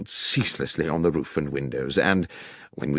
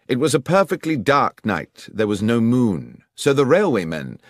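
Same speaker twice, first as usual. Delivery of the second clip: lightly voiced, assured detective; a touch of the confident investigator; detective's deduction; 5 semitones higher, 3 dB louder than usual. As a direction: lay out the solution step by step. Voices Holmes explaining the crime.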